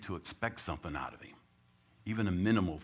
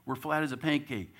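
higher, louder fired-up coach; 8 semitones higher, 5 dB louder than usual. Retold or imitated. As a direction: tell them they're flat. Coach scolding in huddle.

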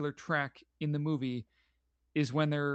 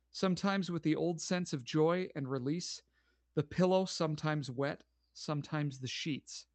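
story narration. Acted. Reads the story's last page.

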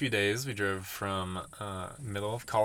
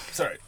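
choking cough. Real, not acted.

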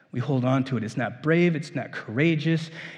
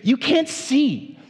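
the donkey begging its master to look; voiced as the faithful donkey; pleading donkey; 5 semitones higher than usual. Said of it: "we say".

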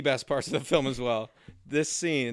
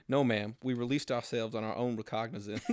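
laughing through quote; 4 semitones lower, 7 dB quieter than usual. Retold or imitated.

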